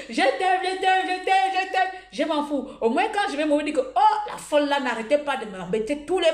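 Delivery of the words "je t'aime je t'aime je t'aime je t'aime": gushing voice notes. Retold or imitated. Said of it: "j'ai fait les audios".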